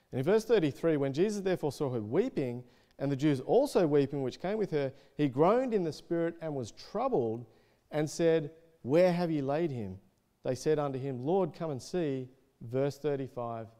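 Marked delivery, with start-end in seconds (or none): 1.0-12.3 measured, slightly raised Bible reading; scripture reading. Acted. Preacher reads of Jesus and the weeping mourners, projected scripture reading. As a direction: read the verse out clearly to the room.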